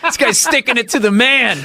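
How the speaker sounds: high, amused onlooker cracking up; imitated laughing. Muggers watching the drunk defy police, laughing. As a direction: laugh through the words in admiration. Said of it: "they were, like, laughing".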